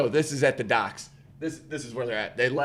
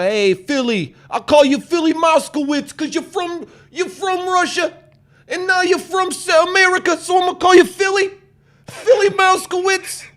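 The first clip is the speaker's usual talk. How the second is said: high, fast, laughing cartoon mouse; cocky little street mouse, hammed up; street smart mouse; 7 dB louder than usual. Retelling the movie, high voice for the street mouse.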